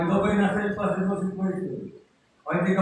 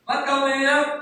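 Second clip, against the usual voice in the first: voicing God; 8 semitones higher, 4 dB louder than usual. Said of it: "ng Diyos kay Prophet Samuel".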